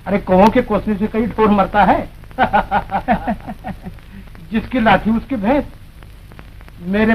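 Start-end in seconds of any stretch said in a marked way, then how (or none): 2.4-3.9 short, smug villain chuckle; smug laugh. Acted. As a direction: laugh off their curses smugly.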